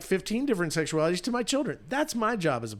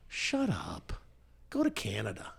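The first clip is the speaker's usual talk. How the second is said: dismissive; 3 semitones higher, 4 dB quieter than usual. Real, not acted. Host dismissing Harry.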